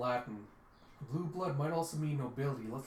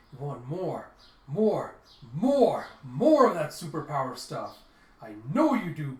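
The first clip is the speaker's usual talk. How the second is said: greedy tempting; 10 dB louder than usual. Retold or imitated. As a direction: sell the power, pushing harder with each more. Yanni tempts him with power.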